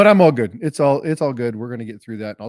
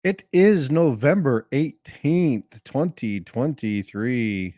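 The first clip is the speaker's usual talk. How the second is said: toothless; 4 dB louder, much slower than usual. Real, not acted. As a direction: mumble the words with no teeth in. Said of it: "I don't have my dentures in".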